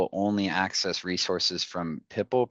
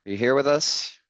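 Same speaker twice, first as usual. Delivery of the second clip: hyped giveaway announcement; 3 semitones higher, 5 dB louder than usual. Real, not acted. Hyped wheel spin and winner call.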